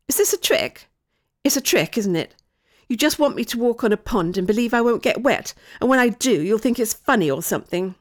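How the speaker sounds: suspicious accusation. Acted. Child accuses voice of a trick.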